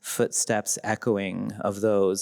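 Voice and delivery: slow reading of her own translated line; reading her translation. Shown as a demonstration. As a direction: read it slowly, weighing each word. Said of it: "this is what I did".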